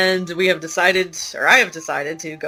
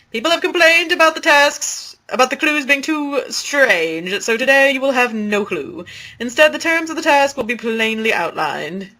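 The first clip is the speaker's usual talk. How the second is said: announcer voice; 3 semitones higher than usual. Acted.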